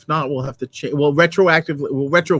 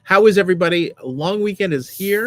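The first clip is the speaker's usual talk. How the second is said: upbeat host greeting; 5 semitones higher, 5 dB louder than usual. Real, not acted.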